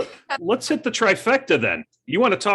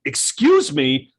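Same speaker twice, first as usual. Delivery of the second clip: slow, drawn-out "Excuse me" with an edge; a drawn, annoyed "Excuse me"; slower than usual. Shown as a demonstration. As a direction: stretch "Excuse me" out like you're irritated. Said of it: "That's the inflection".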